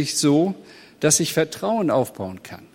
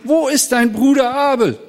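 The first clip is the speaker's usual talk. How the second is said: loud and much higher, calling out; God demanding of Kain, loud call; 8 semitones higher, 5 dB louder than usual. Retold or imitated. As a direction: call across the field for the missing brother. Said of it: "Gott sagt zu Kain".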